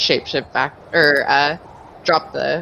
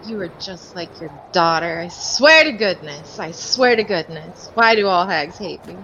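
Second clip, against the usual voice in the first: exasperated hag. Acted. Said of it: "sticks her neck out like".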